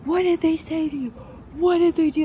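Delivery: high-pitched imitation of screamed questioning; retold screaming. Coach gets in her face after the attack, mock screaming. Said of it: "he starts screaming".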